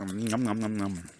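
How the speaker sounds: nom nom chewing noises; playful munching sounds; crunching chips. Real, not acted. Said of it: "We're eating chips".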